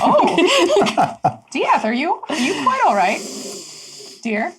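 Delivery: fussy concern. Acted. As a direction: coo at him with prim concern.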